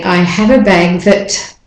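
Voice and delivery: "that" reduced to "thət" with a schwa; weak form of that. Shown as a demonstration. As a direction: let "that" fall weak and unstressed, "thət". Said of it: "the at doesn't say at there, it says uh".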